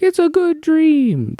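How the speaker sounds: high, drawn-out mock yell; imitating yelling dad. Movie dad insisting on his dream, imitated mock yell. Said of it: "Why are you yelling?".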